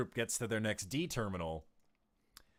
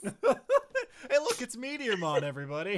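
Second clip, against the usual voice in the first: mock Meteormon voice; 10 semitones higher, 5 dB louder than usual. Fake Meteormon on rock pile.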